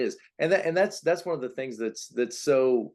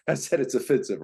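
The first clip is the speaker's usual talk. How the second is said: laughing; 3 semitones higher, faster than usual. Real, not acted. Laughing at own remark.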